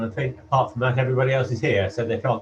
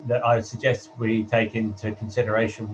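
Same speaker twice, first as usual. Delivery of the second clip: hollow, echoey line like a wind tunnel; as if speaking inside a tunnel; echoing tunnel. Real, not acted. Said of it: "you're still in a wind tunnel".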